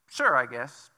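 reluctant sure. Retold or imitated. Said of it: "That was my response".

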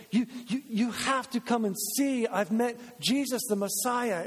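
lightly voiced eager disciple, urging; eager invitation. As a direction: press them, a touch breathless with news. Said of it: "And they say".

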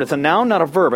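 "noun" and "verb" punched as opposites; emphatic contrast. Shown as a demonstration. Preacher driving home a grammar point, stressing "noun" and "verb". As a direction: hit "noun", then "verb". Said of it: "I can't emphasize that enough".

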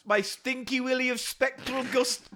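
a hammed-up eccentric ghost hunter with a half-attempted accent; co-host plays a guest character on the game show, hammed up; Gareth the Ghost Hunter. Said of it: "I can't do the accent".

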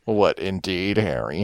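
put-on lazy slurred seventies drunk broad. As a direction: slur it like an old-movie lush. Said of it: "you're good at doing that fucking ... eighties drunk broad voice".

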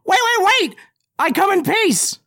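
high loud frantic begging; panicked plea. Acted. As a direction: plead for your life, hands up. Goblin surrenders to charging dwarf.

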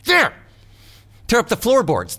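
high, loud unhinged cry; melodramatic madman. Acted. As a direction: declaim like a crazed Gothic narrator. Melodramatic outburst quoting Poe.

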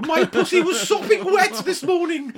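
high, loud put-on voice; mock sexy voice. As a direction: ham it up as a joke voice. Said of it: "pussy joke".

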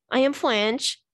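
playful fake French accent; mock French accent. Host joking about being French, mock French accent. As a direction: put on a silly French accent.

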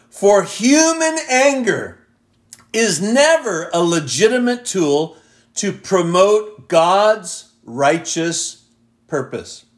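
slow verse, starting high and falling away; emphatic scripture reading. Acted. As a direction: launch high, then space out the final words. Reads a translation aloud.

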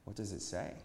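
soft, earnest asking; sincere question. A narrator's reading. Young listener asks the prophet, in all sincerity. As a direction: ask quietly and in earnest. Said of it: "a voice asked in all sincerity".

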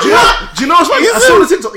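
laughing, loud and high. Real, not acted. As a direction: burst out laughing as you speak. Laughing while telling story.

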